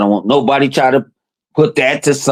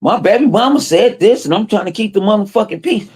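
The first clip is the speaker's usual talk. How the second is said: quoting him; 6 semitones higher than usual. Retold or imitated. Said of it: "told him like".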